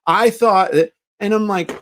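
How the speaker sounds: normal talking voice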